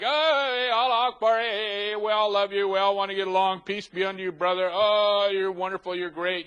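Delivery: high, sing-song mock friendliness; hammed-up peacemaker, oozing false warmth; mock sweet preacher. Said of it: "he's all like".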